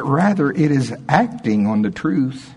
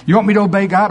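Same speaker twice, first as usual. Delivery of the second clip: questioning; 8 semitones higher, 5 dB louder, much faster than usual. Retold or imitated. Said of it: "I'm trying to put it on her".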